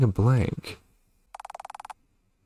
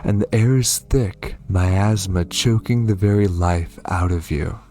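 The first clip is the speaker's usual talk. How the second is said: story narration. Acted. Reads the game's opening narration.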